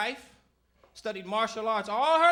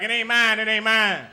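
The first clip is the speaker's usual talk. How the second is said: loud denial; 6 dB louder than usual. Retold or imitated. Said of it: "a black dude would be like".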